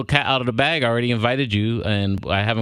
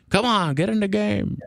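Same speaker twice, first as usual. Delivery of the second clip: pitched up, slow rally cry; booming motivational speech; 9 semitones higher, slower than usual. Shown as a demonstration. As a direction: hype announcer egging players on. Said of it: "You know, like".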